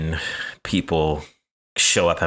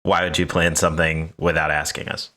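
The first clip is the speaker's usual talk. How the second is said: chillest; 3 semitones lower than usual. Shown as a demonstration. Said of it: "Give us your chillest".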